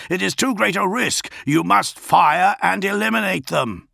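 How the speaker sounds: high, forceful demand; yelled urging. A narrator's reading. Augustin urges his lord to fire, yelling high. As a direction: press him loudly to act now. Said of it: "Augustin yelled".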